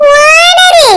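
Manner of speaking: "ஓனரு" shouted short and high; shouted sting. Acted. (உரக்கக் கத்தும் "ஓனரு")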